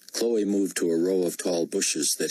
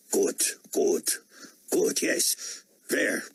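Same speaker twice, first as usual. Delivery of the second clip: put-on breathless German accent; eager half-whispered German voice; 8 semitones higher, slower than usual. A narrator's reading.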